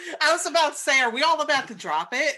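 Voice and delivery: high, loud, laughing through the words; giggling while talking. Real, not acted. Laughing at a joke about a rapper.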